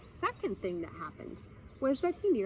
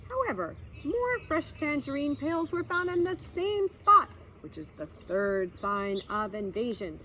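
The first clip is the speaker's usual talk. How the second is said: solemn boar; 3 semitones higher than usual. Acted. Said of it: "In low, solemn whispers".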